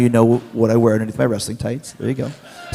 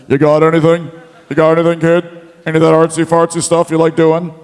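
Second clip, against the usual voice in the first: rough attempt at a wrestler's accent; imitating a fellow wrestler's accent; Shawn Michaels accent. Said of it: "I can't do a Shawn Michaels accent".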